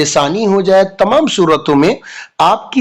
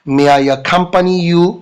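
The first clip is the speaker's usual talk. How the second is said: slow, careful request; slow model sentence; much slower than usual. Shown as a demonstration. Teacher slowly models asking to come along. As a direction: say each word slowly. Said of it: "आप may I का जरूर प्रयोग करेंगे".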